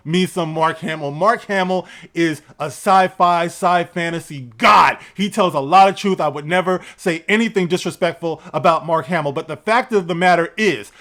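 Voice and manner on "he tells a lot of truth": ordinary delivery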